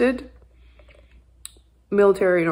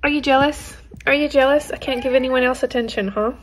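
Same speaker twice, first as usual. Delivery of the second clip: higher, playful voice for the cat; teasing pet voice; 5 semitones higher, 3 dB louder than usual. Real, not acted. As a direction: tease the jealous cat sweetly.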